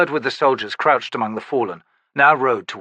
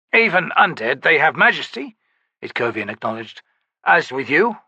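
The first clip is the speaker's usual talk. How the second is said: a higher, firmer knightly voice; soldier questioning; 4 semitones higher than usual. Acted. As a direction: press the shaman with pointed questions. Itkovian replies.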